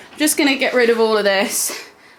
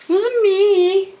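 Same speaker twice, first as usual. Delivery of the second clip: voicing the dog; 8 semitones higher than usual. Answering for the naughty dog.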